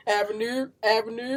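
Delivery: imitated Baltimore accent, rising at the end; mock Baltimore accent. Showing how Baltimore people sound, mock Baltimore accent. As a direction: exaggerate the Baltimore vowel in Avenue. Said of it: "That's what y'all sound like".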